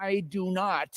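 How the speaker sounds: put-on meek old miser answering the giant; meek Scrooge. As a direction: answer small and cowed. Scrooge replies meekly.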